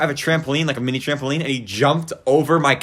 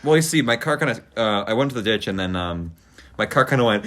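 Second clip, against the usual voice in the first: sheepish claimant; 8 semitones lower, 5 dB quieter than usual. Acted. Plays sheepish driver explaining to insurer.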